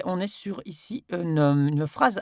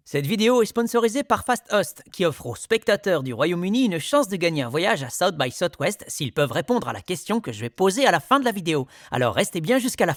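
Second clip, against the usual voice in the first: voice-over read; 3 semitones higher than usual. Shown as a demonstration. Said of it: "je suis totalement synchro par rapport à lui".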